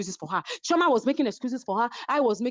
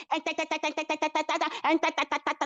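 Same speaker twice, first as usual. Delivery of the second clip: mock girly bickering; 3 semitones higher than usual. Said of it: "I don't do girly fight".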